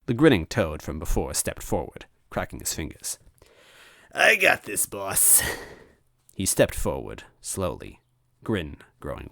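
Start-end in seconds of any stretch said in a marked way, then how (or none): 4.1-5.4 higher, a touch of glee; volunteer cheerfully; lightly voiced eager henchman. Henchman volunteering to his boss, a touch gleeful.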